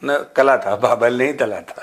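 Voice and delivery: lisping. Pretend. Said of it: "तुतला तो बोलता है सचिन".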